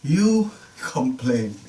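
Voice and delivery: God pointedly chiding, word by word; humbling rebuke. Acted. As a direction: stretch out YOU and COMPLAIN, stressing each. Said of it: "Moses is basically being humbled".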